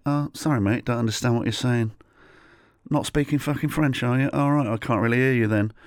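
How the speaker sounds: mildly mocking non-apology; mock indifference. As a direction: imitate someone refusing to understand. Mocking unhelpful French market man.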